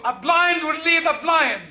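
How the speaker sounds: a hint of sarcasm in the voice; sarcastic quote. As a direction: toss it off with light mockery. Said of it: "Sarcasm also".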